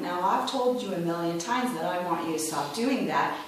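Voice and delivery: controlled parental scolding without raising the voice; pointed-finger tone. Shown as a demonstration. Mother to her kids who keep misbehaving, pointed-finger tone. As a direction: tell a child off, finger-wagging but not yelling. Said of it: "that pointed finger tone".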